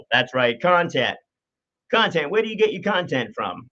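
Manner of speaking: hammed-up radio announcer. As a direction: lean into the DJ voice. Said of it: "put on the radio voice there a little bit more so".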